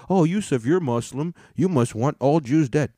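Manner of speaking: a hint of a whiny critic; mock critic. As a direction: whine like a smug accuser. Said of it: "I get it".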